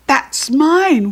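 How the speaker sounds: put-on high, loud little-boy wail; wailing child. A narrator's reading. Little boy protesting his stolen scooter, wailing. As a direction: wail like a robbed little kid. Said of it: "wailed the little boy".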